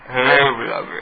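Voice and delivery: lightly voiced lips-peeled-back drawl; hint of a sleazy charmer; Thurston voice. Shown as a demonstration. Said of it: "you can do a Thurston pretty easy".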